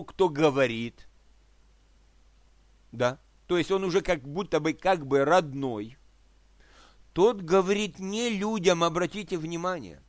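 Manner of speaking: ordinary talk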